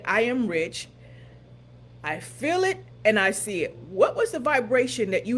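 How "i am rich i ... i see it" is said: emphatic affirmation. Shown as a demonstration. Coach recalling the affirmation for the listeners. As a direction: declare it with lifted conviction. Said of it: "So as we said".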